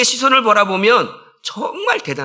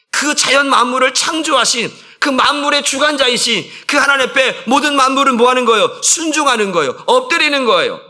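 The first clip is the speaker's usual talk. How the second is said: high, loud sermon climax; forceful preaching; 8 semitones higher, 6 dB louder than usual. Real, not acted. Preacher proclaiming the creator to the congregation, high and loud. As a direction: drive each phrase home at full preaching force.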